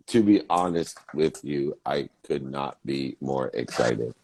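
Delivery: slow, low robot voice mocking. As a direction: imitate him like a flat robot. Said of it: "you sound like a robot?".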